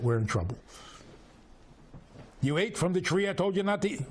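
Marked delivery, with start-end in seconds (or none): 2.4-4.0 quick, raised mock-angry accusation; angry statement. The Eibishter confronting Adam, mock angry. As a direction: play him as scolding and ready to punish. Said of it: "Why are you making it an angry statement?".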